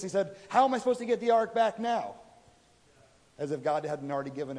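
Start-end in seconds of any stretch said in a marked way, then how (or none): 0.5-2.2 mildly exasperated complaint, pitched up; retold frustration. Preacher acts out David frustrated at God over the ark, mock exasperation. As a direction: act out David griping at God, slightly raised. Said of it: "he's frustrated at God".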